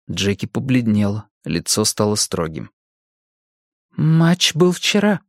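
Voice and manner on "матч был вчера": grim. A narrator's reading. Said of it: "мрачно проговорила она".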